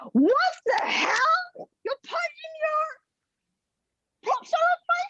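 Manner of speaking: badly faked posh British wife, very high; horrible posh British accent. Chef's wife finding props on her pool table, outraged mock British accent. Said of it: "that was a horrible accent".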